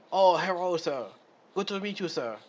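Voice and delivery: hammed-up fake Asian accent; mock Asian accent. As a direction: put on a deliberately bad, stereotyped Asian accent. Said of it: "gave this person that shitty accent".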